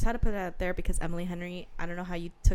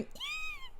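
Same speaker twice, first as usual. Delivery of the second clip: excited squeal; 14 dB quieter than usual. Retold or imitated. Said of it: "It's just us going".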